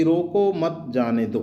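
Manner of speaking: "रोको मत जाने दो" slowly in one even flow; one unbroken rhythm. Shown as a demonstration. Teacher showing an ambiguous sentence, "रोको मत जाने दो" in one rhythm. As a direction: run "रोको मत जाने दो" together without a break. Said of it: "एक लय के अंदर इसको बोल लें".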